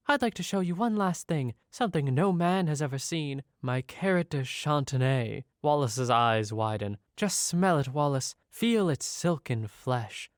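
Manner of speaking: seductive lady voice. Acted. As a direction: purr it like a flirtatious lady. Voicing seductive lady character.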